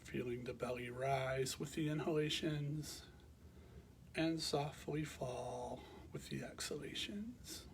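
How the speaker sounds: calm, measured meditation guidance with long pauses; guided meditation. Real, not acted. Teacher guiding listeners to bring awareness to the breath, calm meditation voice. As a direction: guide them gently into rest, leaving space between phrases.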